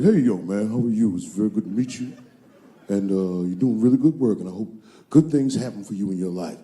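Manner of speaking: low, deep O J Simpson voice; O J impression. Comic quoting O J meeting him, low impersonation. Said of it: "He's like".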